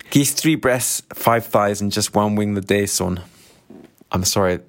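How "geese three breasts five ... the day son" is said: bad Scottish accent. A customer at the deli counter orders chicken in a weak Scottish accent. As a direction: try a Glasgow deli customer's Scottish accent and miss a bit. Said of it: "that is not a great Scottish accent".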